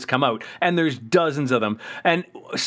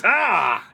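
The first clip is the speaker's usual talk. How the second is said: short, higher-pitched "ah"; mock cry of alarm; 6 semitones higher than usual. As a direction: play a startled yelp, lightly. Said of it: "Optimus goes".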